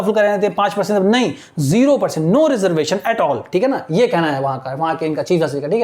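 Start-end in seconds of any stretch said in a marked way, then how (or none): 2.4-3.4 very slow, word by word reading; slow classroom dictation of English text. Shown as a demonstration. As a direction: read it out slowly so students follow. Teacher dictating slowly.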